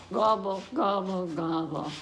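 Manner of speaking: lightly voiced turkey gobbling; turkey gobble. Reader imitating the turkey for kids, mild gobble. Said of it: "it sounds like this".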